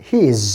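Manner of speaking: his said as "heez", ee held; long vowel. Shown as a demonstration. Teacher models he has contracted, long vowel. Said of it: "এটাও long sound".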